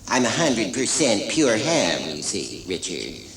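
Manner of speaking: lightly voiced hammy old actor, slow and drawn out; slow, relishing ham with a touch of menace; Vincent Price. Animator mimics the actor he cast, lightly voiced hammy drawl. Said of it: "he speaks a bit like that".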